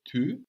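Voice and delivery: "tu" with the French U vowel; French U sound. Shown as a demonstration. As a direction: round the lips tightly for the U in "tu". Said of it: "we will have the U sound".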